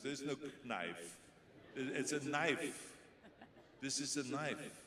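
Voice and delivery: "knife" as nife, slow and clear; silent K in knife. Shown as a demonstration. Director corrects the actor's k-nife. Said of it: "He says".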